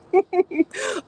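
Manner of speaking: high, loud giggle; real laugh. Real, not acted. Host amused by her botched French accent, high laugh. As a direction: laugh out loud at your own blunder.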